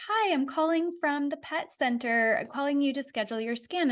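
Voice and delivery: a hint of a receptionist's routine call; lightly voiced scheduler. Pet center lady calling to schedule a scan, lightly voiced phone manner.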